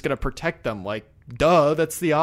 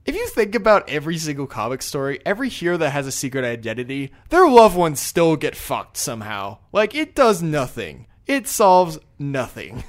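emphatic exasperated rant, raised pitch; small rant; 2 semitones higher, 6 dB louder than usual. Real, not acted. Venting to co-hosts about secret identities, exasperated rant. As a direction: rant it out, slowing hard on the punchlines. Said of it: "small rant over".

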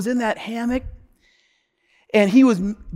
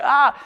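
higher, mock moan of pain; imitated pained cry; 7 semitones higher, 3 dB louder than usual.

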